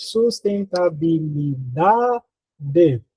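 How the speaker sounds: "sustentabilidade" very slowly, syllable by syllable, long "da"; slow build to "DAAA" in "sustentabilidade"; stress on DA. Shown as a demonstration. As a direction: sound out "sustentabilidade", stretching "da". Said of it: "Mais forte é da".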